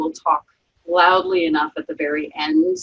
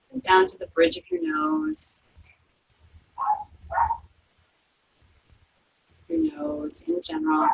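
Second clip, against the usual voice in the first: calm, unhurried body-scan voice; guided meditation; 8 semitones higher than usual. Acted. Yoga teacher guiding students through a resting body scan, calm meditation voice.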